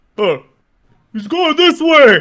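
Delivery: very high, very loud goblin yell. Voicing the hobgoblins who yell at the players, in a mimicked hobgoblin voice. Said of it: "I'll try to mimic their voice and say".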